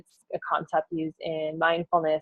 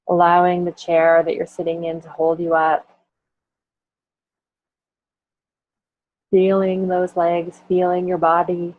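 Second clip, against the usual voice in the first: guided body scan. Acted. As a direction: lead the listener gently through the body. Leads a body scan meditation.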